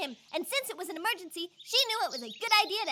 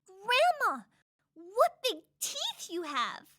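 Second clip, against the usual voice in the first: put-on wondering little girl; 2 semitones higher, much slower than usual. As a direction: drag it out in growing wonder. Red marvels at disguised wolf.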